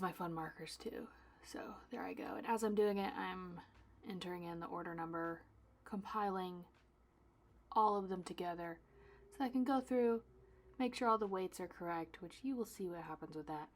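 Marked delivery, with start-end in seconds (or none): none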